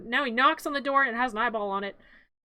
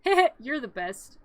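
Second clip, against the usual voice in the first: lightly voiced pal with a little chuckle first; admiring dog sidekick; 3 dB louder, slower than usual. Zero praising Jack, lightly mock admiring. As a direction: say it slowly, a touch hammed-up. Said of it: "And Zero's like".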